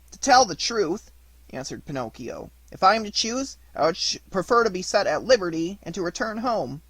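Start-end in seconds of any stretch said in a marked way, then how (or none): 0.1-1.1 high puppet voice. Acted. Puppet answers. 2.7-6.8 high puppet voice. Acted. Puppet answers.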